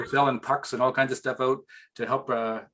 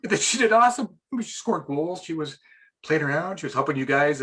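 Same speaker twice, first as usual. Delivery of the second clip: emotional; 4 semitones higher than usual. Real, not acted. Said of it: "I still get choked up talking about this".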